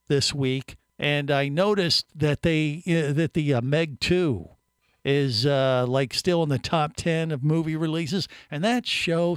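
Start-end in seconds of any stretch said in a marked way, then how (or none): none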